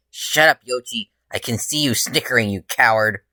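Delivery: yelling at a giggling friend; playful yelling. A narrator's reading. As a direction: shout him down in mock outrage. Yelling at a snickering ghost.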